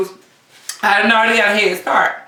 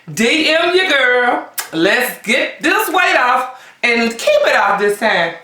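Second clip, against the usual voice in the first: slow, higher, drawn-out pep talk; slow sassy sign-off; 3 semitones higher, slower than usual. Real, not acted. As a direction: sell it slowly to your followers. Signing off to viewers.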